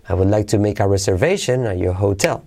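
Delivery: "reservation" and "hotel" accented in a statement; affirmative intonation. Shown as a demonstration. Teacher modelling statement intonation, "reservation" and "hotel" accented. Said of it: "Esas dos palabras acentuamos".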